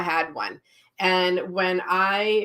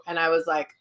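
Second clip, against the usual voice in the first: ordinary talk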